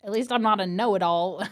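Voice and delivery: half-hearted Aussie brotherly retort; attempted Australian accent. Brother teases his sister, attempted Australian accent. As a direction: try an Australian accent, barely managing it. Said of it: "Okay, I can't do it".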